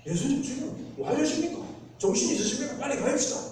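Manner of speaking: are you out of your mind, hurry; exasperated scolding. Retold or imitated. Disciples scold Jesus, voiced. (제자들이 예수께 어이없어 다그치듯)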